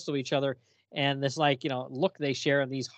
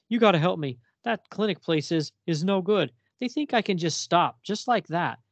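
higher, pleading junkie voice; retold addict pleading, pitched up; desperate addict; 6 semitones higher than usual. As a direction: beg like a strung-out addict. Addict begging for help.

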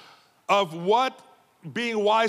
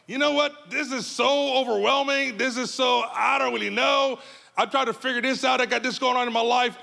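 overwhelmed churchgoer; 5 semitones higher than usual. Retold or imitated. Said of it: "those of you who are right and going".

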